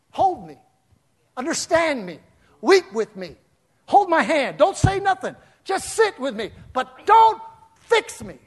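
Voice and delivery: loud, high pleading; impassioned pleading. Real, not acted. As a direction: cry it out, building. Passionate pleading climax.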